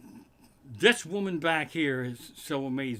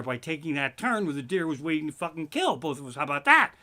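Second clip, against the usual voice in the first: rising rant; 3 semitones lower, 4 dB louder than usual. Retold or imitated. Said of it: "he goes".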